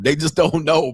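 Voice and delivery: ordinary delivery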